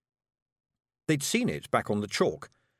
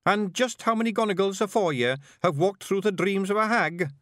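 high, emphatic Scots questioning; Scottish character voice, challenging; probing Scottish Feegle leader; 10 semitones higher, 4 dB louder than usual. Acted. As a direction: play a wee chief testing his novice. Rob challenges the young bard.

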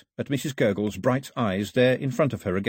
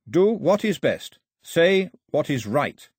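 higher, slow solemn proverb; measured riddling wisdom relayed; Carley quoting the old woman; 6 semitones higher, 4 dB louder, slower than usual. A narrator's reading.

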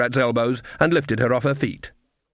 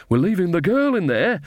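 high, raised call while running; shouted; 6 semitones higher than usual. A narrator's reading. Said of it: "shouted Nanny".

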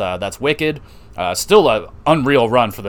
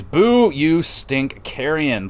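mock booing; 2 semitones higher, much slower than usual. Booing the heel wrestler.

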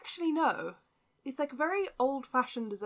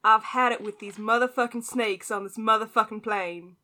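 hint of an American accent, louder than the plain take; attempted American accent; 2 semitones lower, 3 dB louder than usual. Shown as a demonstration. British guest tries the movie quote on request, tentative American accent. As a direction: try an American accent, not quite convincingly. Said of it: "tried to imitate an American accent".

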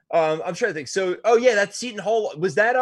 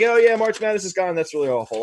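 mock sarcastic lament; 4 semitones higher, 3 dB louder than usual. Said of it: "we're just like".

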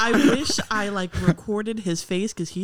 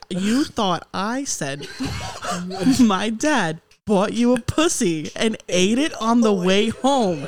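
laughing through it; 4 dB louder, slower than usual. Real, not acted. Retelling absurd misunderstanding, laughing.

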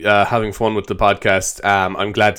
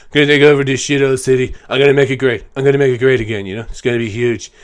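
lightly voiced Trump bluster; a hint of brash Trump boasting; Donald Trump impression; faster than usual. Trump as ruler of Gotham, lightly voiced bragging. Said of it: "wasn't a great Trump impression".

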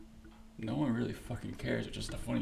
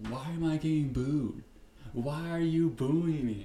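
mock whiny complaint; 4 semitones higher, 7 dB louder than usual. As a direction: whine like a hurt, confused fighter. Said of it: "D C's over here is like".

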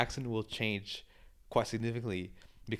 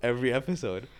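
joking questioning; 3 semitones higher, 5 dB louder than usual. Retold or imitated. Pundits teasing the host about the accent, joking questioning. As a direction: push the mock question home. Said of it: "as a joke".

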